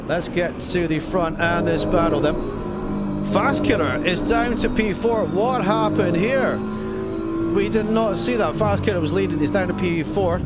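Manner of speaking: high surprised race call. Real, not acted. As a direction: caught off guard by the drop. Leader suddenly lost position.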